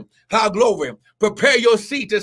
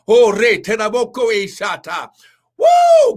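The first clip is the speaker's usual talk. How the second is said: speaking in tongues; 2 semitones higher, 4 dB louder than usual. Real, not acted. Preacher breaking into tongues before the congregation, ecstatic. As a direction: burst into tongues, then whoop. He shouted about.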